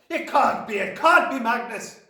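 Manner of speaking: high, loud disbelief, leaning on the denial; Trunchbull crying out. A narrator's reading. Headmistress refusing to believe the message, high shocked cry. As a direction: deny it in horror. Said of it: "she cried".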